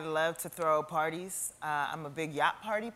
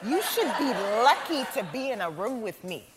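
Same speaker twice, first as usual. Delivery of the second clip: cold arrogant heir; 4 semitones higher than usual. Shown as a demonstration. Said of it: "you should tell yourself in the mirror".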